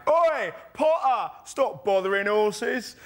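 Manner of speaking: high, drawn-out imitated London yell; swaggering Londoner shout. Swaggering Londoner heckling an actor at stage door, mock loud shout. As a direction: mimic a cocky Londoner calling across the street. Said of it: "swaggering Londoner just walked past and just shouted out really loudly".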